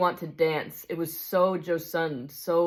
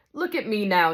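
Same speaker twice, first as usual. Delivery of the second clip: higher, aggrieved working-man's complaint; indignant big ghost; 4 semitones higher, 4 dB louder than usual. Acted. Big ghost accuses the bright spirit over poor Jack, indignant. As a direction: press the grievance like a wronged bloke.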